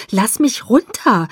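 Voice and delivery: slow, whiny plea with stress on mich; whining. A narrator's reading. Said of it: "jammerte ich".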